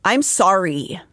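overdone, drawn-out mock apology; hammed-up fake remorse; insincere apology. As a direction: say sorry like you don't mean it, dragging the words. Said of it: "when they say it like that".

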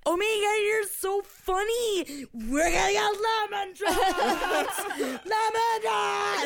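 high, slow squealing shout; sorority girl. Retold or imitated. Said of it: "they're screaming lemon drops".

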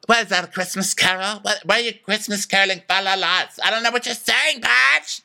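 high, rising mock confusion; baffled onlookers. Onlookers answering drunk Dorinda, high and baffled. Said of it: "And they're like".

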